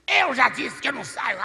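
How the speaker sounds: loud, high defiant demon shout; hateful demon. Retold or imitated. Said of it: "aquele ódio saindo dos olhos dele". (demônio gritando com ódio)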